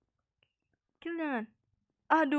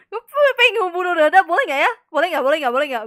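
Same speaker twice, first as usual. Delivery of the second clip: loud, pitched-up chant of boleh nggak; excited; 4 semitones higher, 11 dB louder, faster than usual. Real, not acted. Gamer to friends, giddy and loud, asking to kill Ryoda. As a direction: keep asking louder and louder, giddy.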